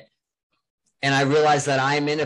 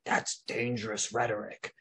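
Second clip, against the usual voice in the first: mock quoted phrase; 4 semitones lower, 10 dB quieter than usual. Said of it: "we kept hearing this phrase".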